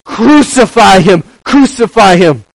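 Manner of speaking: loud, high, slow mock crowd scream. Mob at Pilate's trial screaming, loud and slow. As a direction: shout it like a mob demanding death. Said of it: "And they would scream".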